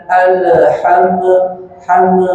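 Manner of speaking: alham with the mim bounced. Shown as a demonstration. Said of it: "Nggak boleh dipantulkan". (contoh salah mim dipantulkan)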